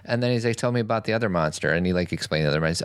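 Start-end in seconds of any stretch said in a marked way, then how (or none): 0.6-1.7 a hint of dad, lightly higher and fast; brisk fatherly ask; dad's quick request. Father asking his son about the other monster, quick.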